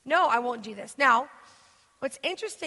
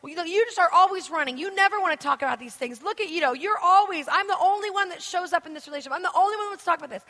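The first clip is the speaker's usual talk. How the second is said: higher, louder whiny complaint; mock upset partner; 5 semitones higher, 5 dB louder, faster than usual. Preacher mimicking a baiting partner, higher whiny complaint. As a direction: whine like a partner baiting you. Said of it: "they'll get".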